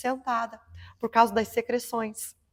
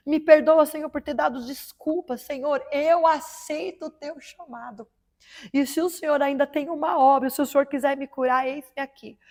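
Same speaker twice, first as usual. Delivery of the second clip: slightly raised, pleading prayer voice; tearful prayer; 2 semitones higher than usual. Retold or imitated. A woman kneeling alone, begging God, lightly tearful. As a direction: pray on your knees, asking for forgiveness.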